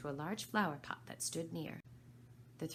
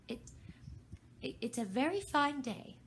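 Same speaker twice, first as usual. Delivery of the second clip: timid; 8 semitones higher, 4 dB louder than usual. A narrator's reading. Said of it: "in a timid voice".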